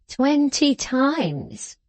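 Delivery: put-on tag old grandfather. Grandfather's line in his voice.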